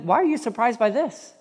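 exasperated Peter. Acted. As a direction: voice Peter pushing back at the crowd. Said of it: "He's like".

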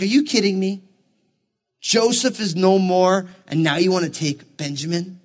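low-key imitation of an upset father, with stunned pauses; mock disbelief, pausing between protests; upset, incredulous. Retelling a father's answer to his sons, upset and incredulous. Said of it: "Jacob's just upset now".

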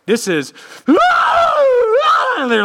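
high, loud, drawn-out wail; demonstrating a mourner's wail. Shown as a demonstration. Preacher showing the congregation professional wailers, wailing loudly. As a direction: let out a long keening cry. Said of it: "like, crying".

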